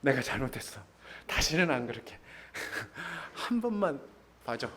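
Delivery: a hint of a husband brushing it off, laughing; wheedling husband. 화난 아내에게 얼버무리며 사과하는 남편, 웃음 섞인 가벼운 말투. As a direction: toss off a quick sorry to calm her. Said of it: "우선 뭐라 그래요".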